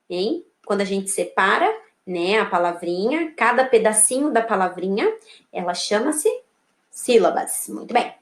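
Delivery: usual speaking voice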